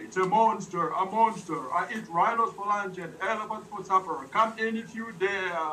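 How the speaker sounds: booming monster. Acted. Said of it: "this booming voice comes down and says".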